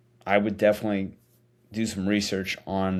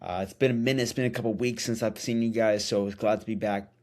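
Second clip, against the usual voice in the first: talking around a retainer; wearing a retainer. Real, not acted. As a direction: speak with a retainer in. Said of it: "I apologize if my voice sounds weird. I've got my retainer in".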